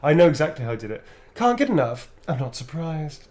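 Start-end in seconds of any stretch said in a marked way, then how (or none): 1.3-3.3 tease, sassy and self-satisfied; sassy vampire line. Shown as a demonstration. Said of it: "I did it exactly like that".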